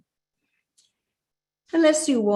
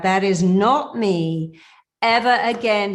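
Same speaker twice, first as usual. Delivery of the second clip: slow, louder declaration rising on ever; out loud affirmation; 3 semitones higher, 6 dB louder than usual. Shown as a demonstration. Coach leading the affirmation out loud, slow and loud. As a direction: proclaim it slowly and loudly. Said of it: "say out loud".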